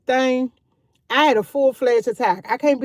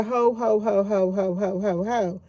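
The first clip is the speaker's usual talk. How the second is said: softer, gentle ho ho to calm her down; calm hushing; 3 semitones lower, 5 dB quieter, slower than usual. Retold or imitated. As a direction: ease her off without snapping, low-key. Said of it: "you said it so nice".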